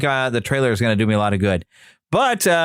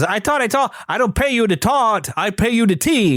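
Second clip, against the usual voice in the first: lightly voiced cartoon bird, higher pitched; Tweety Bird; 8 semitones higher than usual. Retelling a funny cartoon exchange from the trailer, mild high character voice. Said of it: "And Tweety's".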